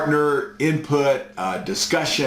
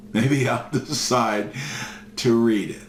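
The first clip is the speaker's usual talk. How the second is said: laughing through the punchline. Retold or imitated. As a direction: chuckle as you repeat the line. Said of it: "real thick German accent".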